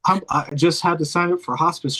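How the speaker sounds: a light deadpan grandma imitation; mock serious grandma. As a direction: play the dying grandma teasing with a straight face. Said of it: "real serious".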